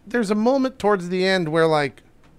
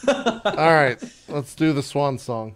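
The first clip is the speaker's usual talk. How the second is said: put-on British accent; 4 semitones lower, slower than usual. Band member proposing a song, British accent. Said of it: "everyone talked like the Beatles".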